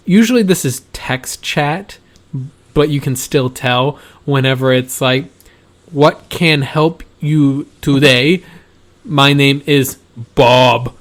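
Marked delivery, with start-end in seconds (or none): 5.9-10.9 slow, word-by-word scripted greeting; canned template greeting. Retold or imitated. Imitating a support agent's chat template, slow scripted delivery. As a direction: spell it out slowly, hit BOB loudly. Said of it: "in ca-, all caps for the name".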